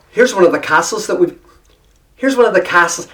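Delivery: lightly Irish-tinged castles; casual, slightly Irish accent; slipping into brogue. Retold or imitated. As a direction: try the line with a hint of brogue. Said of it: "slip right into the brogue".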